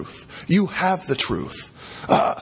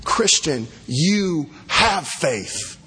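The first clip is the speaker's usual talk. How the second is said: tender gospel assurance; gentle reassurance; 2 semitones higher than usual. Real, not acted. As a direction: speak it tenderly to the weak. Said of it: "the gospel application".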